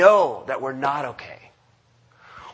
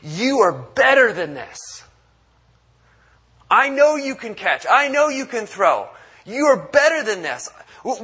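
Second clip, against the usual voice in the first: rally the player who is better than this; a coach at halftime rallying a struggling player, fired up; 5 semitones higher than usual. Retold or imitated. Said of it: "at halftime and go".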